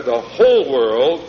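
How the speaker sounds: "whole" stretched long for emphasis; stress on whole. Shown as a demonstration. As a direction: lean on "whole", drawn out slowly. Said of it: "underline the word all or whole".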